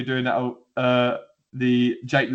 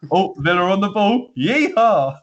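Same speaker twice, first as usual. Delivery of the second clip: high, mock American commentator; botched American accent; 7 semitones higher, 5 dB louder than usual. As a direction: badly attempt an accent that turns American. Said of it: "Why is he American all of a sudden?".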